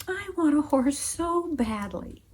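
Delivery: put-on wistful, pleading little girl; child's longing plea. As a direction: ache for it like a begging child. Child keeps begging for horse.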